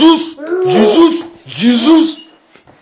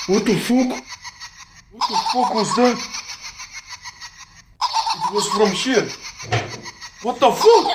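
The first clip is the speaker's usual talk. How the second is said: high, shaky laugh through the words; high nervous giggling swears; 6 semitones higher, 3 dB quieter than usual. Real, not acted. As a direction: laugh off the fright. Nervous reaction to the noise.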